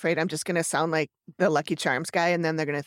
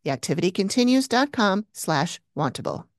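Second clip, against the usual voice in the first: ad read; 4 dB louder than usual. Acted. Host gives listeners the discount offer, emphatic ad read. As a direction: land each phrase of the offer.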